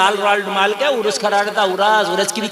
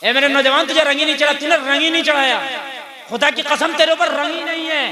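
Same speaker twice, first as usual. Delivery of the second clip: impassioned appeal; 5 semitones higher than usual. Real, not acted. Preacher exhorting the youth.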